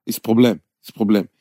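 mock Russian caretaker with Problem stressed on the last syllable; imitating a Russian caretaker; Russian accent. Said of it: "russische Hausmeister".

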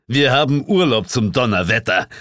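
a mildly thundered command; the boss cuts the quarrel short; booming rebuke, understated; thundering. A narrator's reading. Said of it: "donnerte Sir James".

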